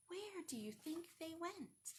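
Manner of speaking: put-on soft whisper to the children; a secret question, whispered. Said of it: "reading to children".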